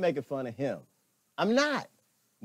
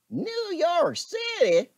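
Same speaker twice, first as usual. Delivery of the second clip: mock disbelief; 13 semitones higher, 4 dB louder, much slower than usual.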